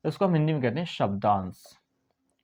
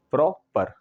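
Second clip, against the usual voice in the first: "प्रॉपर" split in two beats, प्रॉ-पर; two separate syllables; slower than usual. Shown as a demonstration. Teacher showing two syllables, "प्रॉपर" said in two distinct parts. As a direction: say "प्रॉपर" with a short break before पर. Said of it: "आप दो बार बोलेंगे".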